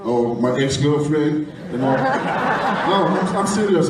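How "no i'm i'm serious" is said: laughing. Real, not acted. Laughs off ex-girlfriend remark.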